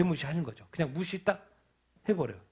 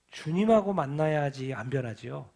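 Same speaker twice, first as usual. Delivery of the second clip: ordinary delivery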